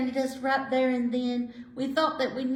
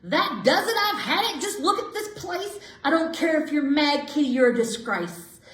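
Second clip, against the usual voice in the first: exasperated scolding; 3 semitones higher, 3 dB louder than usual. Acted. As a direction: let the owner's patience snap. Owner loses temper at Kitty.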